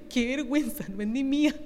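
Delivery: hushed embarrassed reply; sheepish aside. Pretend. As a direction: confess quietly, caught in borrowed clothes. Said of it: "Y usted dice".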